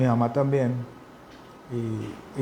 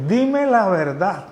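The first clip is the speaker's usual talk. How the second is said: higher, slow, stern command; retold angry order, pitched up and slowed; angry demand; 6 semitones higher, 4 dB louder, much slower than usual. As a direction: drag each word out like a furious mother. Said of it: "Se enoja ella bien fuerte".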